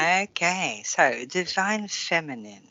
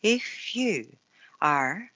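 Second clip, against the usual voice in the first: card reading; 3 semitones lower than usual. Acted. Reads the card message.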